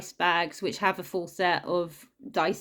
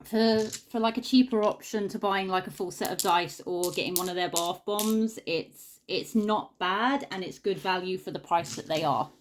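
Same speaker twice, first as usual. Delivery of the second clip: sniffling. Real, not acted. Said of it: "sorry about all the sniffling".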